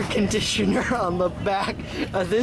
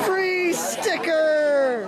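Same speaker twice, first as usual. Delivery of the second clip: delighted exclaim; 7 semitones higher, much slower than usual. Real, not acted. Delighted at convention table.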